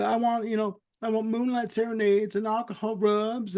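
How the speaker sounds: somewhat high, pampered dog voice. Retold or imitated. Charlie listing his demands to the gentleman, somewhat high. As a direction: ask for luxuries like a spoiled pet. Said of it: "He goes".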